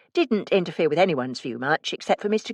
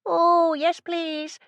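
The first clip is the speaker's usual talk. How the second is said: eager call back; 13 semitones higher, much slower than usual. A narrator's reading. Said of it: "I called back".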